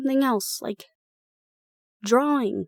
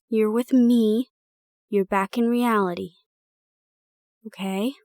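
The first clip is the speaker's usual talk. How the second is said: reassuring, grounding. Acted. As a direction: talk them back down gently. Calming a shaking friend.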